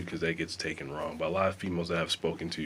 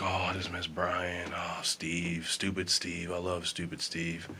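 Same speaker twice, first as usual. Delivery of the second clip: mock lovesick girl; 4 dB quieter than usual. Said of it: "it's like".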